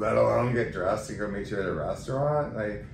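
loud, exasperated retort, rising to a high come on. Retold or imitated. Retelling her fed-up reply to friends who complained, loud and exasperated. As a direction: let them have it, fed up.

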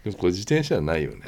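fast, suppressing a laugh; trying not to laugh. Real, not acted. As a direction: hold the laugh back. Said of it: "ダメだって".

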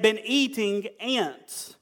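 been eating ants drawn out slowly for effect; slow emphasis. Shown as a demonstration. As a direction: stretch been eating ants to make it land. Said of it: "all right?".

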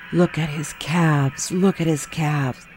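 a lightly voiced mom, slow and dreamy; mom admiring. Lightly voiced mother swooning over her husband on the couch, slow and dreamy. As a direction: linger over it like a smitten wife. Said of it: "she would be like".

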